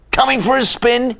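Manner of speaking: high, loud call to friends. Acted. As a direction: call out across the barn. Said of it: "he called".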